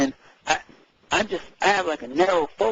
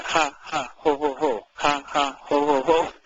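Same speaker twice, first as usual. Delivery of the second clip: laughter yoga chant; slower than usual. Shown as a demonstration. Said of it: "we do laughing exercises".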